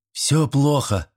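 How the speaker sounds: very slow, mock-tragic pronouncement. A narrator's reading. Boy announces to the girls in a tragic, very slow voice. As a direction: announce it like doom. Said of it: "трагическим голосом возвестил Федька".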